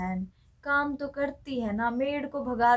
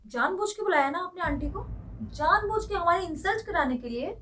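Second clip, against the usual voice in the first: raised, higher pitched accusing voice; angry accusation; 6 semitones higher, 3 dB louder than usual. Acted. Daughter-in-law accusing her mother-in-law of shaming her, raised angry voice. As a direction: hurl the blame at her, voice up high.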